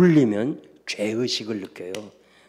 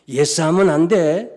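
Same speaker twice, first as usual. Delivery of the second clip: much louder, forbidding; loud warning; 5 semitones higher, 9 dB louder than usual. Retold or imitated. Lawyer forbidding the girls to say yes, loud. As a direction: bark the prohibition.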